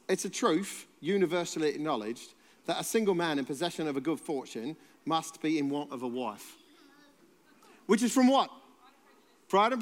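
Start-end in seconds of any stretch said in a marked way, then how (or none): 0.1-6.6 light mock-Cockney reading; Cockney accent. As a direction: try a Cockney accent on a literary line. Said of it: "I'll do it in a Cockney accent".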